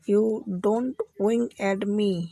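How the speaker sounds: very slow, each word spelled out; slow teaching demo. Shown as a demonstration. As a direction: say it slowly for learners to copy. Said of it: "आप उसको English में क्या बोलेंगे". (धीमे-धीमे, साफ़ उच्चारण में)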